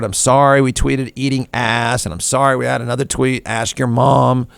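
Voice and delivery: lightly voiced contrite executive; a hint of a sorry spokesman; mock apology. Executive apologizes publicly, lightly mocked. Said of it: "falls on the sword".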